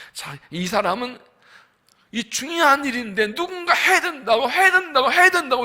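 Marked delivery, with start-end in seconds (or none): 2.1-5.6 high raised voice, laughing a little; imitating a man crying out over and over; mock shouting. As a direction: ham up the insistence. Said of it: "외치는데".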